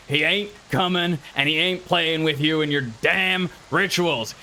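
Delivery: put-on yelling old farmer. Old bloke at the upstairs window warning off kids, yelling. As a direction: warn them off like an old farmer. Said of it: "and he yells out".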